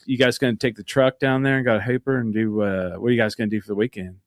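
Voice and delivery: casual West Texas small talk; West Texas accent. Shown as a demonstration. Showing friends the hometown accent that returns, West Texas accent. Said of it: "what does West Texas sound like".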